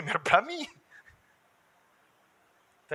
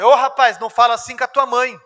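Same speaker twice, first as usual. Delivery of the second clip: father scolding; 2 semitones higher, 7 dB louder than usual. Retold or imitated.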